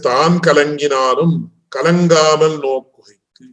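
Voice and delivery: rapid practised chant of the Tamil text; scripture recitation. Acted. Teacher recites the commentator's Tamil words to students, rapid chant. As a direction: rattle off the verse from memory.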